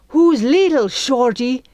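put-on a small girl bristling back; mock growl. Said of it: "Flim growled".

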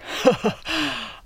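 high short villainous chuckle; villain's laugh. A narrator's reading. Pirate captain steps toward his captive, villain's laugh. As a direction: chuckle menacingly at your captive. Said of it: "He laughed and took a step".

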